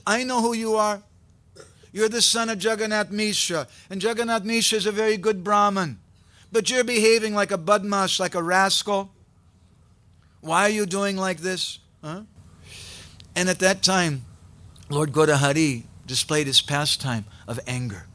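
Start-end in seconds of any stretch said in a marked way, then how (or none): 0.1-11.8 higher-pitched indignant telling-off; furious scolding, understated. A narrator's reading. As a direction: scold a rascal with a touch of anger. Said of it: "Murari Gupta became furious".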